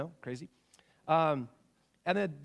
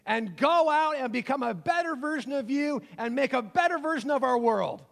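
commencement speaker; 4 semitones higher, 5 dB louder than usual. Acted. Preacher sums up every graduation speech, mock commencement speaker. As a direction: give a mock rousing send-off, hitting key words. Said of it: "commencement speech down to one formula".

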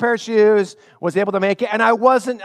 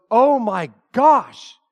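mom dismayed; 5 semitones higher, 3 dB louder, much slower than usual. Retold or imitated. Mom dismayed at worn shoes.

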